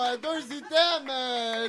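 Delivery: ordinary delivery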